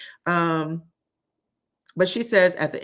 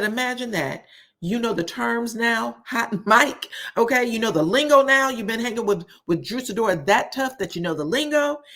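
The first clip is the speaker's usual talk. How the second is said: sarcastic mocking; 5 semitones higher than usual. Portia mocking Dennis over hot mic.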